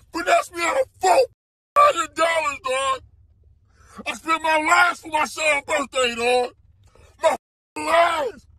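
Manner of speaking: cracking, shouted lament over lost money; distressed shouting. Real, not acted. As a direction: yell it out, near tears, hurt and angry. Scammed father yelling in distress.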